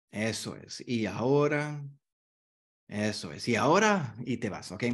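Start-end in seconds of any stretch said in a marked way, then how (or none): 0.1-1.8 soothing filler. Shown as a demonstration. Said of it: "Eso te gana unos cinco segundos". 2.9-4.2 soothing filler. Shown as a demonstration. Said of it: "Eso te gana unos cinco segundos".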